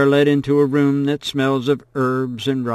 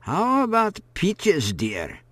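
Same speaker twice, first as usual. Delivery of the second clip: put-on murmuring old woman; 9 semitones higher, slower than usual. A narrator's reading. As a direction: coax the girl gently as the old woman. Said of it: "murmurs Madame Manette".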